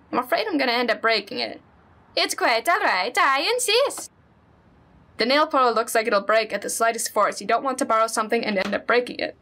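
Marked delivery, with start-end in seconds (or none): 2.2-4.1 higher, kindly Minnesotan neighbor; friendly neighbor lady, lightly accented; Honda-san voice. Acted. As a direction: play the sweet old neighbor.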